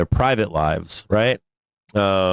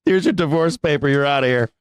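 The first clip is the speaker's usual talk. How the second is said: higher, breezy kiss-off, half laughing; hammed-up spouse showing the door; mock dismissive; 4 semitones higher than usual. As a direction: hand over the papers with a smirk. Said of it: "I'm like".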